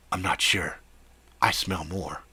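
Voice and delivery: low, quiet werewolf rumble; a hint of a beast, held back. Werewolf answering over headset.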